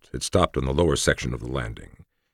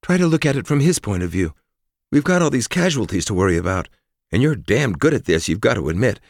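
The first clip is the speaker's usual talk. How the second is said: higher, louder pleading woman warrior; emotional woman's voice; 8 semitones higher, 5 dB louder than usual. Acted. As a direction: urge him to understand, with feeling. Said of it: "said Forrest with some emotion".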